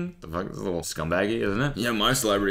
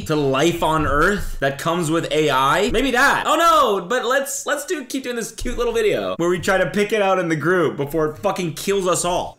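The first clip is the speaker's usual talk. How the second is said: mock panic; 9 semitones higher, 4 dB louder than usual. Mock panic about AI doom.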